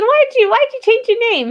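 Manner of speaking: incredulous question. Retold or imitated. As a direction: ask it as if you can't believe he did it. Retold confronting a friend.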